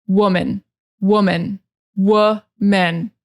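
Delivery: "woman" starting with a short "wuh" vowel; uh first vowel. Shown as a demonstration. Teacher modelling "woman" for learners with an "uh" sound. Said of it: "it starts with the uh sound".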